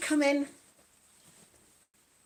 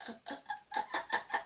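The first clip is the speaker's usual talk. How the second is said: soft, high repeated "uh"; short little effort sounds in a steady run; quiet rhythmic "uh, uh, uh"; demonstrated exercise noises; 10 dB quieter, much faster than usual. Shown as a demonstration. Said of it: "I'm doing".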